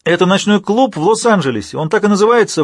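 doctor waves his arms, loud and fervent; preacher-like excitement. Acted. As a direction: proclaim it like a tent preacher. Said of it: "размахивал руками, как проповедник".

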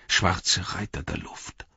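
slow, soft murmur, lightly voiced. A narrator's reading. Pippin naming the riders of the air, slow soft murmur. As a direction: murmur it slowly, half to yourself. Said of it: "murmelte Pippin".

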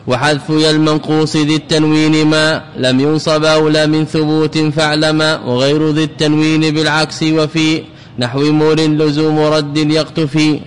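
level, sustained didactic chant; measured monotone verse chant; verse recitation. Acted. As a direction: recite the grammar verse on one held note.

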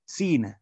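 سينا as "seenaa", s followed by "ee"; long i vowel. Shown as a demonstration. Teacher reading out the mountain's name, سينا said "seenaa". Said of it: "سينا أو سينا".

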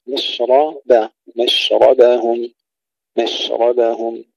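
مشربهم with unvowelled sh and light b; slow, careful recitation of مشربهم, ba kept thin; still shin, thin ba. Shown as a demonstration. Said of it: "الشين الساكنة ثم الباء مرققة".

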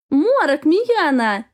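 high, loud call across the hall. Acted. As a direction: call them over across the noise. Zhivana calls out to friends. (громкий оклик через зал)

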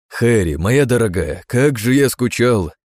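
slow, loud and joyful; joyful cry. Acted. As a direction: call out happily to his wife. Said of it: "заголосил радостно он".

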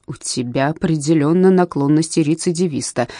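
ordinary delivery

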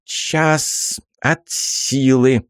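put-on slow, drawn-out old hag; stubborn old woman; old crone voice. Crone repeats her bet.

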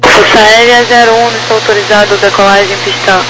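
crackly military radio. Real, not acted. Tower clears air force jet.

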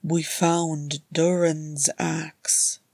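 very slow, numb and hollow; hollow, empty tone. Acted. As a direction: let the words fall out empty. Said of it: "in a hollow, empty tones".

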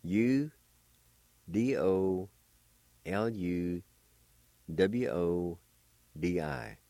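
letters named one at a time; spelled out letter by letter. Shown as a demonstration. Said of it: "and it's spelled like this".

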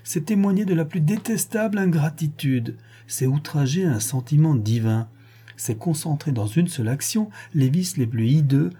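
a hint of a stern, indignant wife; lightly voiced mother condemning the crime. Mother lecturing her son and husband, lightly indignant. Madame Borel denounces the crime.

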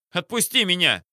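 high, loud panicked squeal. A narrator's reading. Captain dragged from the car, squealing high. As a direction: squeal to be let go. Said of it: "взвизгнул тот".

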